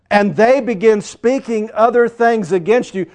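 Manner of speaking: loud, emphatic preaching, key words drawn out; preacher's ringing declaration; forceful preaching. Acted. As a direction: proclaim it with full conviction.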